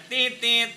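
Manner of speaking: loud "tit-tit" beep; censor beep imitation. Shown as a demonstration. Replacing the honk with a beep, loud imitated bleep. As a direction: mimic a short double bleep. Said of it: "diganti ya".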